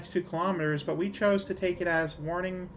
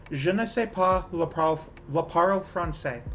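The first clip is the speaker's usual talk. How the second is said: English-accented French. Shown as a demonstration. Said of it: "It's a very English way to say French words".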